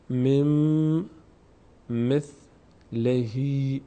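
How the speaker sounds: slow میم with a held nasal m; n merged into m. Shown as a demonstration. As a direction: hum the m of میم, then stretch the end of مثلهی.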